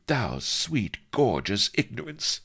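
high, fond sigh of words; lightly sighed endearment. A narrator's reading. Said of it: "she sighed".

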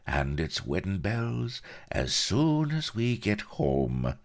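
high, slow, self-satisfied announcement; smug, unhurried gloating; complacent. A narrator's reading. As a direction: savour the boast smugly. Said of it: "whispered the Colonel complacently".

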